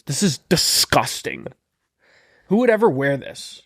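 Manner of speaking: lightly voiced mock disgust; a hint of a stuck-up shopper; snobby shopper. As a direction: sneer at the clothes a little. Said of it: "She went inside, started grabbing shirts".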